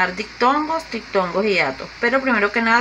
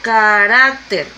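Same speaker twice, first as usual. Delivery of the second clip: "Carácter" drawn out, with weight on RAC; stress on penultimate syllable; 4 dB louder, much slower than usual. Shown as a demonstration. Teacher repeating the example for students, stressed RAC in "Carácter". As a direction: stretch into a strong RAC in "Carácter". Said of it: "lleva acento en la".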